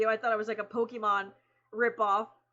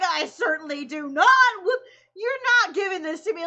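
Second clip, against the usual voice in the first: high, loud, choked-up protest; overwhelmed and touched; a hint of tears in the protest; moved disbelief; 7 semitones higher, 8 dB louder than usual. Quoting the actor, moved.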